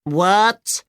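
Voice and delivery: high puzzled robot voice; confused robot. Acted. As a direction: ask blankly like a glitchy robot. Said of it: "said the robot".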